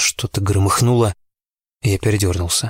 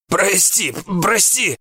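laughing plea; 11 semitones higher, much slower than usual. A narrator's reading. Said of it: "прохрипел он".

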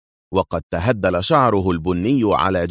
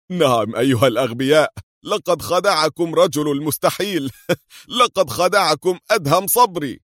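high gloating words through laughter; laughing; 8 semitones higher than usual. A narrator's reading. Qadri mocking his captors, laughing. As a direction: crow it while laughing. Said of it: "قال من خلال ضحكاته".

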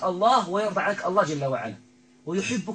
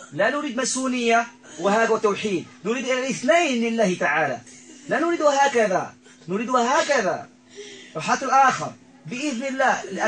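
raised, insistent preacher's voice with a laugh breaking in; forceful preaching; 7 semitones higher, 4 dB louder than usual. Real, not acted. Healer exhorting the possessed man to submit, loud preaching. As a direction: preach it out with conviction.

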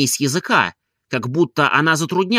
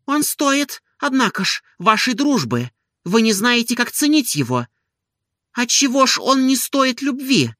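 higher, earnest woman's voice; defending him; 9 semitones higher than usual. A narrator's reading. Olga defends Oblomov to Stolz, higher and earnest. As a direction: protest on his behalf. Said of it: "защищала она".

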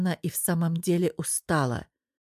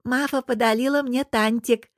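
put-on a small child's lisp, a bit higher; lisping little boy; 5 semitones higher than usual. Little Bosya shows grandma his toy, lisping happily. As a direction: say it like a proud toddler.

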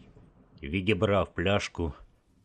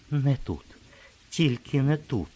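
pitched-up pleading voice, not her own; high strange whisper; 8 semitones higher than usual. A narrator's reading. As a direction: beg him in an unfamiliar high voice. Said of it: "шепотіла вона тим же високим і чужим голосом". (високий чужий благальний голос)

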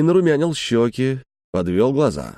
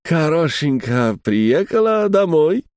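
put-on slow, higher French-accented Russian; French learner's Russian; 5 semitones higher, slower than usual. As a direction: draw out the Russian words like a Frenchman. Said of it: "говорил Галуа". (медленно, с французским акцентом)

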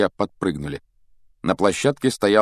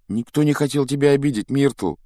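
soothing; 7 semitones higher than usual. A narrator's reading. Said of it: "попыталась успокоить её Гермиона".

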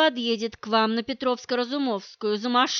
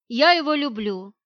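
crisp, sharp rebuff; 3 dB louder than usual. Acted. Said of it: "чётко и резко отбрила меня она".

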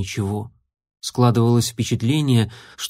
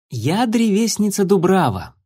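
put-on tree spirit girl; 8 semitones higher than usual. A narrator's reading. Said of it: "сказала девочка с листвой на голове".

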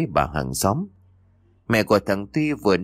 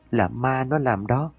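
slow, higher tearful wail, "nó" stretched and rising; crying child; 5 semitones higher, slower than usual. A narrator's reading. Boy clinging to his mother, tearful slow wail. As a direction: sob it out slowly to mother. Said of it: "vừa khóc vừa mếu máo".

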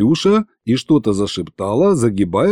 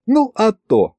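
high-pitched cheeky confirmation; amused scoff; 11 semitones higher, slower than usual. A narrator's reading. Wife answering husband's hopeful question, scoffing. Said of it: "хмыкнула она".

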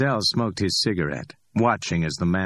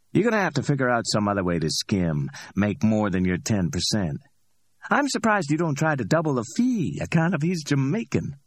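higher, amused street hustler voice; cocky Ordell; 6 semitones higher than usual. Acted. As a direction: play Ordell, high and pleased with himself. Ordell teases Max.

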